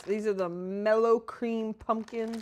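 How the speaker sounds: eating candy while talking; mouth full. Real, not acted. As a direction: talk around a bite of candy. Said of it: "stop eating these pumpkins".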